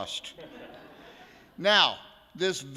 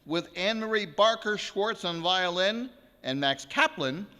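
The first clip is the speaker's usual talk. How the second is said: concert announcement. Acted. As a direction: present the piece to the hall with ceremony. Formally announces the first piece.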